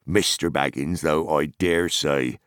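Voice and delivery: lightly voiced farmer, slowing for the tease; teasing hobbit farmer. Farmer teasing Frodo about mushrooms, teasing farmer voice. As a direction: grant leave, then draw out the teasing.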